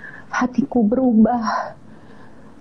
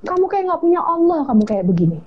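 firm mother; 6 semitones higher than usual. Retold or imitated. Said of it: "Dia tegesin suaranya".

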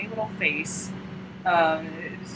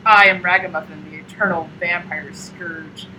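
mock-serious, gloomy vampire; slow down grandly on the title, lightly hammed-up; Ragamuffin; 5 dB louder than usual. Vampire doll introducing himself to girl, gloomily grand. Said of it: "doom and gloom and so serious".

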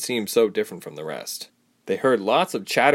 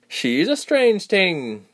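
put-on young man's voice; 10 semitones higher, 3 dB louder, much slower than usual. A narrator's reading. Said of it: "the boy replied".

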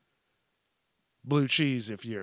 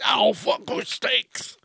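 exasperated shout; 9 semitones higher than usual. Shown as a demonstration. Shouting at himself over the slip, exasperated. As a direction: yell steaks at your own tongue. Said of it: "Like, I can't even say it".

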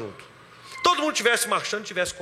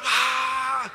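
long open "aah" battle cry, mildly voiced; sustained mock war cry; imitated crowd yell; 4 semitones higher than usual. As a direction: mimic a crowd starting to shout. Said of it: "todo mundo começa a gritar".

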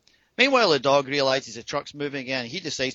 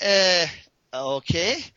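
stall, then accept it uncertainly; stunned hesitation; 5 semitones higher, much slower than usual. Retold or imitated. Man absorbing her blunt explanation, retold awkward hesitation.

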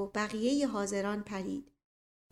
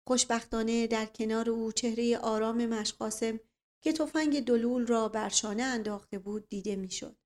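ordinary delivery, nothing marked

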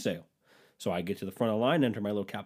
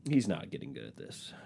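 low deadpan; 7 semitones lower, 5 dB quieter than usual. Acted.

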